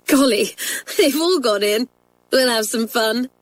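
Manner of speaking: thrilled by the mischief; excited schoolgirl. A narrator's reading. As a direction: Janet to friends, gleeful. Janet after all squibs fall.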